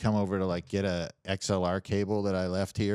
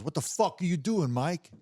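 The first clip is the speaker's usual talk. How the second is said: raised-pitch acted demand; incredulous robber; 7 semitones higher than usual. Robber questioning his partner mid-robbery, acted incredulity. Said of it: "the other guy goes".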